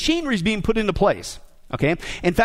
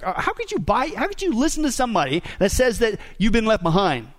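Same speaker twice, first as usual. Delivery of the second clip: surprised disbelief. Retold or imitated. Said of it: "he's surprised at these Christians".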